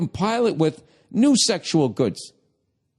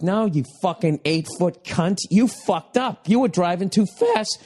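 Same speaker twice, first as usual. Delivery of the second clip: reenacted angry yell, pitched up; 3 semitones higher than usual. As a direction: berate the screen in exasperation. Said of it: "I'm yelling at the T V".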